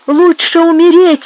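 high, loud defiant outcry; breathless cry. A narrator's reading. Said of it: "вскричала она, задыхаясь".

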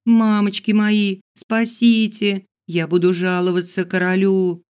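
high, loud frightened plea; panicked cry. Acted. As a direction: squeal it out in terror.

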